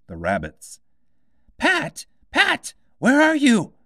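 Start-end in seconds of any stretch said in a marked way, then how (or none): 1.6-3.7 very high, loud furious rabbit; angry rabbit shouting. A narrator's reading. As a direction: yell for the servant. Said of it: "an angry voice".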